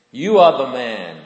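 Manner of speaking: prophet's forceful accusation; confronting accusation. Acted. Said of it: "to confront him".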